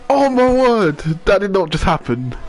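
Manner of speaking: high, loud stunned disbelief; can't believe what you just saw; shocked. Real, not acted. Reacting to crash on stream.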